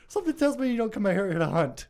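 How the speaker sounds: a hint of a smug bear; bear's punchline. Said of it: "and says".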